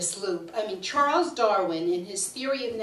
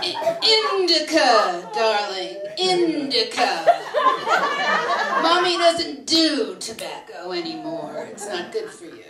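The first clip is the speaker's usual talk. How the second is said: laughing mock-mother reply; 2 semitones higher, 5 dB louder than usual. Her reply to the son.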